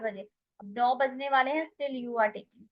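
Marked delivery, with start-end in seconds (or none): 1.7-2.7 slow emphasis. Shown as a demonstration. Teacher stresses example meaning.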